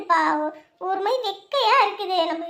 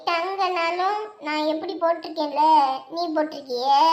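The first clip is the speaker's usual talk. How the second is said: put-on slow, smug child's comeback; cocky taunt. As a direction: drag out the boast to needle a rival. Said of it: "என்கிட்ட திமிரா பேசுறான்". (திமிரான, இழுத்த கிண்டல்)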